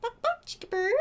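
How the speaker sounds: high squeaky line for the bird to copy; bird-teaching voice. Shown as a demonstration. Teaching her cockatiel a phrase in a squeaky high voice. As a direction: say it like a parrot would. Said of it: "He's saying it with me".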